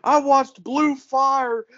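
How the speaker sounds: imitating helpless mirth, very high and slow; barely able to talk. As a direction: squeeze out the words as if dying laughing. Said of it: "he can't barely talk".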